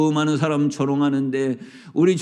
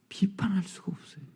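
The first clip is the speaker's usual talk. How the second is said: 비판할 whispered and falling; soft whispered line; 11 dB quieter than usual. Acted. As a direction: breathe 비판할 수가 없어요 almost silently. Whispered contrast to loud line.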